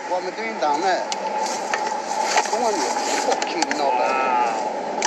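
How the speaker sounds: angry. Real, not acted. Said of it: "he's just chucked a can of Coke".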